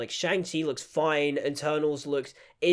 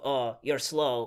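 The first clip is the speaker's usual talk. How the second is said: slow, lower, mildly snide jibe; mock snide remark; 4 semitones lower, slower than usual. Reviewer mimicking the heroine's put-downs, mock snide. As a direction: imitate a character's drawn-out put-down. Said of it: "making a snide remark".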